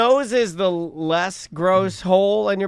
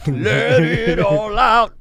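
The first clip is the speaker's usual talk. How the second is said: mock soothing voice; 3 semitones higher, 3 dB louder, much slower than usual. Slow put-on comic voice.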